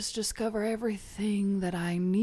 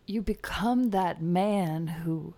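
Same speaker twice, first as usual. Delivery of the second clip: whispering. Acted. Mystic healer whispering.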